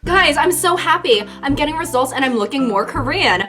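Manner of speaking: high, loud squealing excitement; giddy mock poster. A vlogger acting a poster thrilled to look Korean, in a high squealing voice. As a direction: squeal with over-the-top joy.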